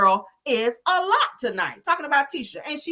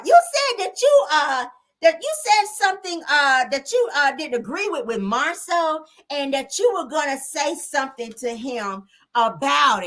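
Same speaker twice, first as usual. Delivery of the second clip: much higher, halting, stammering imitation; stuttering mock; 5 semitones higher than usual. Mocking Tisha confronting Mel, high and stammering. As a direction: stumble over every word on purpose. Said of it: "Oh, stuttering ass".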